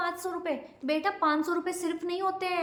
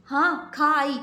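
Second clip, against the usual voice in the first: louder, clipped answer; curt angry reply; 5 dB louder, much slower than usual. Acted. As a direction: bite back the words. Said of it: "बड़ी गुस्से में लग रही हो?".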